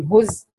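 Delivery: هزء as "huz", brief silence, then the hamza; sakt before hamza. Shown as a demonstration. Teacher showing Idris's reading, هزء with a sakt. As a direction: split هزء with a short pause after the z. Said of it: "هيسكت هنا".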